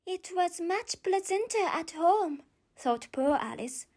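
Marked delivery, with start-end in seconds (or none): 0.0-2.4 put-on higher wistful girl; Alice's voice. Alice wishes she were home, wistful girlish. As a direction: sigh it like a homesick child.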